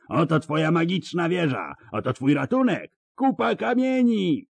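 high mocking roar. A narrator's reading. Bonhart roars at Ciri across the lake, mocking. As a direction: bellow it in triumph at her. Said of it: "ryknął".

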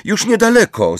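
high-pitched answering call. A narrator's reading. Hermione calls back to Umbridge, calling out. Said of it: "zawołała Hermiona".

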